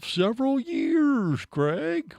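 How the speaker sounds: high, slow, drawn-out turtle voice. Retold or imitated. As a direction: stretch each word like a sleepy turtle. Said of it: "I like your turtle voice".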